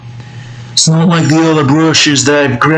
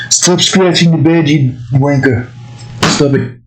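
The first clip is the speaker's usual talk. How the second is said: raised-pitch, lightly voiced character scolding; put-on scolding voice; 3 semitones higher than usual. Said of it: "a voice like that".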